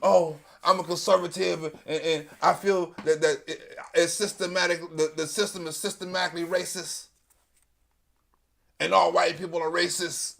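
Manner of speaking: low, soft mocking whine; a lightly voiced self-pitying conservative; quiet mocking lament about oppression; mock conservative victim. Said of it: "I have never heard that energy".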